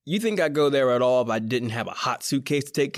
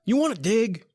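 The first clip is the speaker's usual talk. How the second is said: irritated snap; 10 semitones higher, 3 dB louder than usual. Acted. Snapping at Pete.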